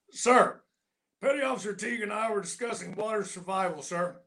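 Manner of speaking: high, crisp report to an officer; gunny at attention. Retold or imitated. Gunny reporting to the Admiral, mock formal. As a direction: snap a straight-faced report.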